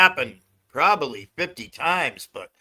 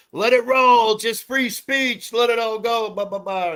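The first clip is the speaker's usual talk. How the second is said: higher, drawn-out mock protest; voicing the crowd; 8 semitones higher, 3 dB louder than usual. Other viewers egging on the chat, mimicked higher. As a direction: mimic a crowd urging let it go. Voices the crowd urging free speech.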